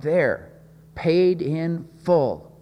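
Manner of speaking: slow, high, ringing triumph; understated victorious cry. Retold or imitated. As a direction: draw out paid in full like a shout of victory. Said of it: "cried out".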